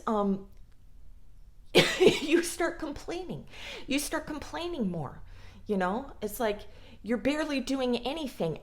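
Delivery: normal talking voice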